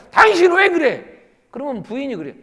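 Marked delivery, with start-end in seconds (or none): 0.1-1.0 high, loud demand; acted anger. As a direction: imitate a husband flaring up at his wife. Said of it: "자꾸 화를 내는 거예요". (남편이 버럭 화내는 흉내)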